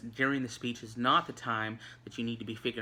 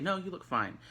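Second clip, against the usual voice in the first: higher, straightforward reassurance in one go; sincere, truthful; 7 semitones higher than usual. Shown as a demonstration. Reassuring Miss Gamble on her looks, sincere and truthful. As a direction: answer simply, as if you mean it. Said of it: "me telling the truth".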